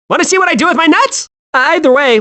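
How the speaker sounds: ordinary talk, nothing marked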